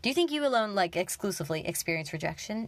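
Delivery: firm retelling of dad's question; dad's retort. Retold or imitated. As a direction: clean second take of dad's challenge. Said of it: "I can speak, I promise".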